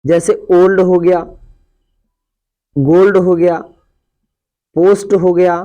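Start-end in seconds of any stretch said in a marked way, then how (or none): 0.5-0.8 "ओल्ड" with a full, plain long o; straight o sound. Shown as a demonstration. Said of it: "directly ओ ही होता है". 2.8-3.2 "गोल्ड" with a full long o; straight o sound. Shown as a demonstration. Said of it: "ओ को ओ ही सीधा बोलते हैं". 4.8-5.1 "पोस्ट" with a full long o; straight o sound. Shown as a demonstration. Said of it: "ओ को ओ ही सीधा बोलते हैं".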